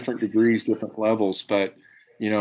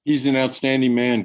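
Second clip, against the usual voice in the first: a little louder and higher, restated clearly; repeating to be heard; 3 semitones higher, 3 dB louder than usual. Real, not acted. Guest repeats himself to the host who missed it, clearly restated. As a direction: say it up a bit for someone who missed it. Repeats after being asked "what's that?.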